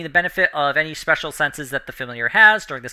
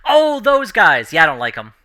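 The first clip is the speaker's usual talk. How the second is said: gurgling fish man croak; 2 semitones higher, 8 dB louder than usual. Acted. GM voices minnow, recognizing.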